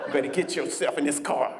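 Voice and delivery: woman in a car luring him in, low. Acted. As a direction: pull him in low and teasing.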